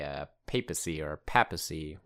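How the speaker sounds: "papacy" first as PAY-puh-see, then as PAP-uh-see; "papacy" said first with a long A, then with a short A; two pronunciations. Shown as a demonstration. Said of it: "however you wanna say it".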